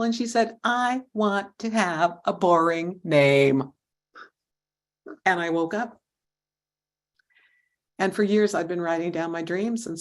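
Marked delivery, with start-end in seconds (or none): 0.6-3.7 slow, sassy insistence with a touch more volume; a twelve-year-old digging in her heels, lightly voiced; sassy girl. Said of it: "did a little sassy wiggle".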